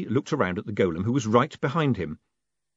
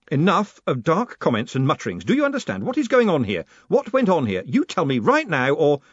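exasperated, raised voice, pressing questions; angry demand; 6 semitones higher, 5 dB louder than usual. A narrator's reading. Moist confronting Grote behind a slammed door, fed up. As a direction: demand answers, loud and higher.

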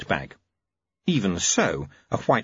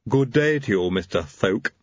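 haughty. Acted. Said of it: "he said haughtily".

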